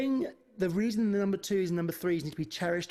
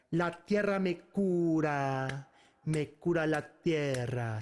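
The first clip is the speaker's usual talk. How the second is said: spoken without melody; 6 semitones lower than usual. Shown as a demonstration. Teacher walks through the tough verse, spoken without melody. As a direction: say each phrase out, unsung. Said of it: "With melody".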